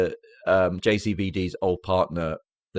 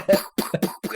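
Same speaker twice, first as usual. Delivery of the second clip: sound effect pow; 10 semitones higher, faster than usual. Retold or imitated. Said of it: "really loud, like, pow".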